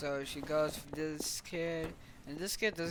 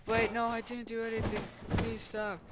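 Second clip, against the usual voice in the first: high, fast, frantic plea; panicked begging; 7 semitones higher, 4 dB louder than usual. Retold or imitated. Kid begging the robots to stop, high frantic plea. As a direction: beg them to stop.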